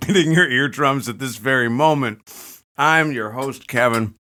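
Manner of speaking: talking through a mouthful of cereal; mouth full. Real, not acted. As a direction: speak around a mouthful of food. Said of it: "Kevin's got a mouthful of Rice Krispies right now".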